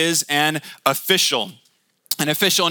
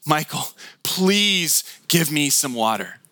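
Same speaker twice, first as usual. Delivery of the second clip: desperate plea. Retold or imitated. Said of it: "looks at me and goes".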